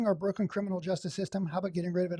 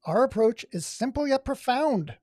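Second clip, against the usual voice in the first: villain voice; 4 semitones higher than usual. Shown as a demonstration. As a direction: savor each word like a villain. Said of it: "like a villain".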